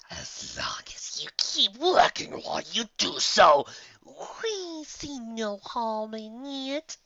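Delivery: put-on breathy, hushed old entity; whispered voice of the ancient Allfather; whispery ancient Allfather. A narrator's reading. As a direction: speak like an ancient creature from the shadows.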